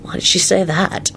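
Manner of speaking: softly voiced, mild yawn. A narrator's reading. Lupin, unbothered by Quentin's scolding, yawning. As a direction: say it as if half yawning. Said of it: "Lupin yawned".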